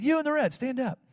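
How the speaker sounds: single out the one in red; mild imitation of a preacher lady calling someone out; prophetess calling out. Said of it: "she said".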